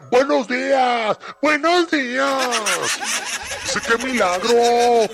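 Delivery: very high, squeaky, loud silly voice; listener's message voiced. Radio host reading a listener's morning greeting in a squeaky voice. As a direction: squeal it like a giddy cartoon fan.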